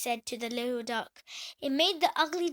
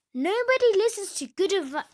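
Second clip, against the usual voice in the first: crossly; 6 semitones higher, 5 dB louder, faster than usual. Acted. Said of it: "quacking crossly".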